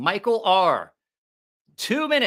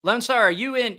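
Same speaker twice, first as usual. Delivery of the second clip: hyped giveaway announcement; 4 semitones higher, 3 dB louder, slower than usual. Real, not acted. Drawing the giveaway winner live.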